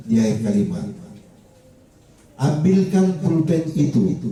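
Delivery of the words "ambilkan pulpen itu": "Ambilkan pulpen itu" pitched high as an order; demonstrated imperative, "Ambilkan pulpen itu" lifted well above normal talk; command intonation. Shown as a demonstration. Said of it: "Itu perintah".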